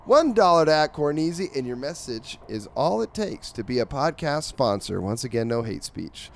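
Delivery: punchy ad-read delivery; sponsorship pitch. Acted. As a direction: sell it like a podcast promo. Reads the podcast's sponsorship pitch.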